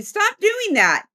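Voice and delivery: slow, high mock scolding; scolding spirit. One unseen being scolds another, drawn-out high scolding. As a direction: draw out the complaint in a high voice. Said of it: "the other one going".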